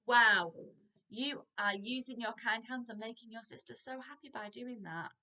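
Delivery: put-on big bright "Wow" then warm praise to a child; enthusiastic praise. Shown as a demonstration. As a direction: cheer the child on. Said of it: "praising child demo".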